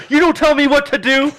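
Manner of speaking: high, loud mock-indignant dad. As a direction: play the offended father. Dad's indignant reply.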